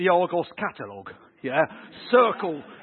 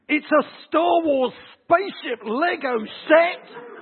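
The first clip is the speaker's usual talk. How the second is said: put-on excited child; 8 semitones higher, 5 dB louder, slower than usual. Child opening Lego present.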